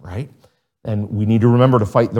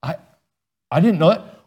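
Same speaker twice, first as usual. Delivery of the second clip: confused students; 5 semitones higher than usual. Retold or imitated. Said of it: "and we all went".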